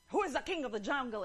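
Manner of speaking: quick, mildly forceful lion demand; lightly voiced bossy lion, fast; growling lion. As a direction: challenge the elephant briskly. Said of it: "And growled".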